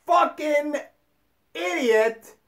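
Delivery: lightly acted scolding, a little high; spaced-out mock rebuke, word by word; Jesus scolding. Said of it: "And he said".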